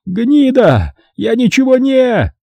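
high, panicky caretaker protest; caretaker yelling. A narrator's reading. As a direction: squeal at him to stop. Caretaker in pain. (высокий испуганный крик смотрителя)

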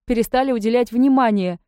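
acted weeping reproach, not real tears; bursting into tears. A narrator's reading. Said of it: "разрыдалась навзрыд".

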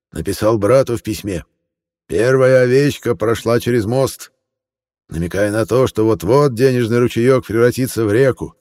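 lightly voiced cheerful old man; friendly old man. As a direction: gush like a sugary old gentleman. Old man lectures on art.

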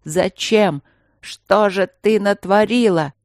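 angry king demanding an answer; shaking her, demanding. Acted. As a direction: make him force the answer out of her. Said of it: "схватил её за плечи ... начал трясти".

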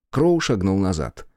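ordinary delivery, nothing marked

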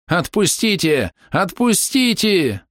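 high, slow wailing cry. A narrator's reading. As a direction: wail it out, begging. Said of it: "вновь заголосил".

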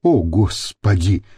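low, slow groan; moaning. A narrator's reading. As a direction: groan it, clutching at your heart. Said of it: "простонал Кашкин". (со стоном)

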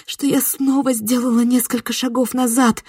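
ordinary delivery

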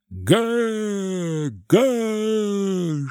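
high crowd shout; crowd roar. Acted. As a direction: bellow like a restless mob. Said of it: "шумела толпа".

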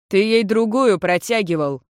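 understated angry retort; mild anger. Acted. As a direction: accuse him, mildly cross. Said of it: "сердился красноволосый".

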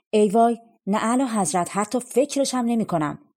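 startled, eager no to the king; emphatic refusal. Acted. Youth refuses king's offer.

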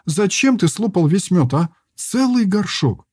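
high, indignant scold; a girl angrily scolding a greedy friend; angry scolding. A narrator's reading. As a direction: tell him off for the honey. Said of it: "сердито двигая посуду".

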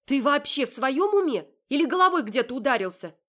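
high, loud indignant shout; furious disbelief. Acted. Heroine shouting at Marat over the kidnapping.

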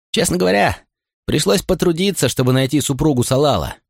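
put-on high, eager young officer; young man voice. A narrator's reading. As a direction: voice a boyish, keen policeman. Young policeman voiced by narrator.

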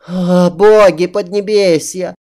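high, dramatic wailing princess; cartoon princess. A narrator's reading. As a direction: lament like a spoiled princess. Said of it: "Голос принцессы ... заглушил порыкивание".

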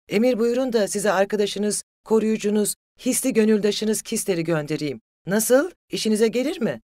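loud, high-pitched taunting; wild, jeering yell; frenzied shouting. A narrator's reading. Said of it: "çılgın gibi arkasından bağırıyordu".

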